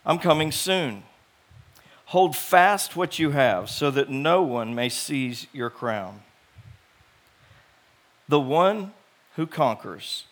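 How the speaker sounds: measured, solemn Bible reading; scripture reading. Acted. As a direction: read the verses with gravity. Reads scripture aloud.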